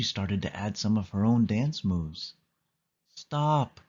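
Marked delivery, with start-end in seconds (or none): 3.1-3.8 cried out. A narrator's reading. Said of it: "cried her strict dance teacher".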